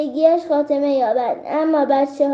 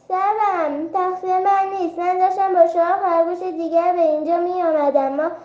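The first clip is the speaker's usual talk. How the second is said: a frightened little rabbit pleading half in tears; tearful plea; 2 semitones higher than usual. Acted. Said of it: "با گریه گفت".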